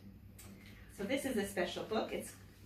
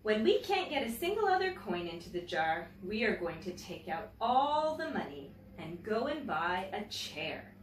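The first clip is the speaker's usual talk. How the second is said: put-on reading a picture book aloud to children; gentle, clear storytelling for young listeners; story reading. A narrator's reading. Teacher reading a picture book to her class, storytelling voice.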